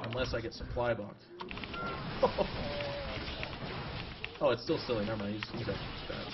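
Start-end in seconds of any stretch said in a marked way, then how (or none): 1.3-4.4 laugh. Real, not acted. Laughs at own joke while playing.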